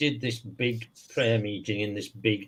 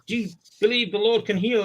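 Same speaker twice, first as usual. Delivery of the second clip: preacher voice; 9 semitones higher than usual. Retold or imitated.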